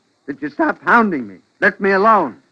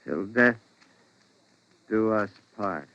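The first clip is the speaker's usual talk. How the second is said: dark soft echo; 6 semitones lower, 9 dB quieter than usual. Acted. Husband echoing vow darkly.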